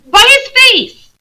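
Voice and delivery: high, loud, slow certainty; earnest girl. Acted. Lucy explaining how she knows, high, slow and earnest. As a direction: say it as plain truth. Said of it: "said Lucy".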